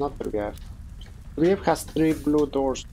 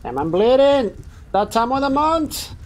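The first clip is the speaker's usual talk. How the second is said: mock dramatic; 11 semitones higher, 4 dB louder than usual. Joking about bleeding in game.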